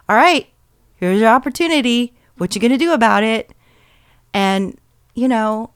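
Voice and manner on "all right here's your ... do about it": louder, higher challenging call; voice of God. Retold or imitated. God challenges the speaker with an opportunity, loudly. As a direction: dare her like a coach.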